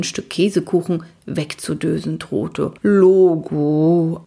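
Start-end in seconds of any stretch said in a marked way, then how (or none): 2.8-4.2 limp reply. Acted. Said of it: "antwortete Magic schlapp".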